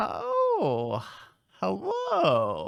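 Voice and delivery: soft, very high, tinkling little bell-like voice. A figure behind a floating ball speaks up, in a soft, high, bell-like tinkling voice. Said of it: "a soft, high voice tinkle from like a bell".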